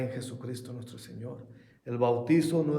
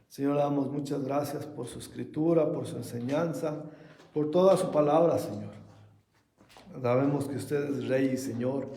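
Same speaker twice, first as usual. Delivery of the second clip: prayer. Acted. Pastor leads closing prayer.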